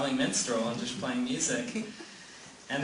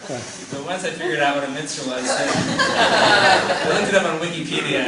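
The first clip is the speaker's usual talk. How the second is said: laughing; 2 semitones higher, 7 dB louder than usual. Real, not acted. Laughing while telling story.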